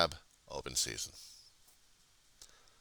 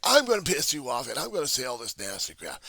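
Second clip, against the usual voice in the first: higher, fast mock whine; whiny troll quote; 9 semitones higher, 5 dB louder than usual. Imitating trolls who want pity, mock whine. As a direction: mimic a self-pitying troll.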